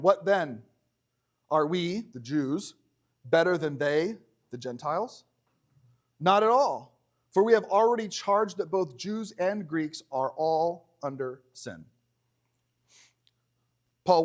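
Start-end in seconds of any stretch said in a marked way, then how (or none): 0.0-11.9 measured, formal Bible reading; scripture reading. Acted. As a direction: read the verse out to the congregation. Reads the verse aloud.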